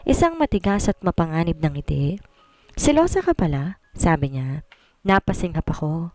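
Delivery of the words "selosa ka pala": panunukso. Acted. Mapanganib na ngiti, nanunukso.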